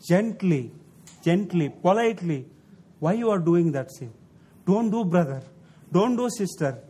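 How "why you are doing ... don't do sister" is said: calm, patient admonition; gentle rebuke. Shown as a demonstration. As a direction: plead gently, like an elder brother. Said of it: "We need to speak like that".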